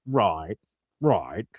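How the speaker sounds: low, lazy imitation of Howard Stern; Howard Stern impression. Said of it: "it does a Howard Stern impression".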